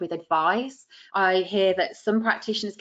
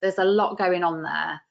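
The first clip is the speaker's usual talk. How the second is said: sincere; 2 semitones lower than usual. Shown as a demonstration. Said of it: "make it sound really sincere".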